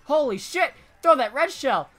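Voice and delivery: high-pitched, thrilled amazement; excited surprise. Real, not acted. Suddenly up to second place.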